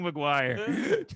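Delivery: mock yell at normal volume, half-laughing; retold yell. Son repeats his dad's yelling for the hosts, laughing mock yell. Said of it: "he was yelling".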